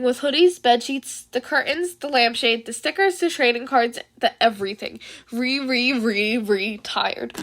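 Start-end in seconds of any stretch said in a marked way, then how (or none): 5.3-7.3 slow, broken stammer. Acted. Midoriya retiring yet again, slow stammer. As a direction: stumble over the word in dread.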